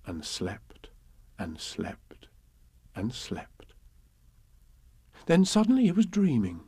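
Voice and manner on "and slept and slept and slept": softer and softer, drifting off; fading to sleep. A narrator's reading. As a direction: trail away into sleep. Pooh falling asleep.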